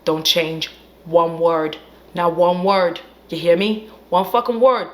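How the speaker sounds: lightly voiced cool literary admirer; emphatic slang, building in force; H P Lovecraft. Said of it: "that's how he talks for this story".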